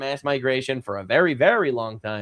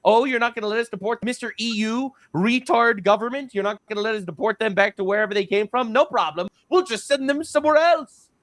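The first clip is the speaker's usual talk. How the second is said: higher-pitched, taunting retort; mock defiance; 5 semitones higher than usual. Hungarians sarcastically answering the EU government, mock defiance. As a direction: act out a sarcastic comeback. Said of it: "They were busing illegal migrants, saying".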